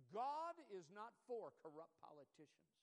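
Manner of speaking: loud, slow proclamation; imitated evangelist preaching. Preacher quoting the evangelist on sin, loud proclamation. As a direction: lightly echo an old-time evangelist's booming declaration. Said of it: "He would say things like this".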